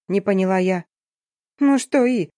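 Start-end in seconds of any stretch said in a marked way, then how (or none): 1.6-2.3 sharp, higher retort; snapping back. Acted. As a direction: snap back irritated. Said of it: "огрызнулась подруга".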